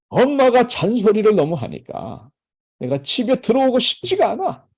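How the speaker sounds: mock-annoyed child griping about nagging; a kid grumbling that mom nags too much. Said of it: "막 짜증내며 얘기한단 말이에요".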